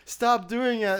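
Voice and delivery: hammed-up bickering kid; whiny mock scold. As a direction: whine it like a kid telling others off. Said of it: "he was like".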